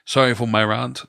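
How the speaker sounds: "rant" with a broad 'ah' vowel; long-A rant. Retold or imitated. Quoting how other people say it, "rant" as RAHNT. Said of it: "I've heard people say".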